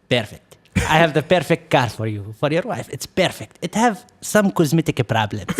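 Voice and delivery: put-on fast, pushy salesman in an Arab accent; imitated Arab accent. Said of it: "I'm gonna try to talk to his accent".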